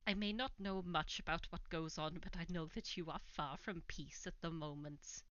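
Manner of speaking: put-on NPC in a light Welsh accent; lilting Welsh accent, lightly done. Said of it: "doing a m-, mostly Welsh accent is tiring".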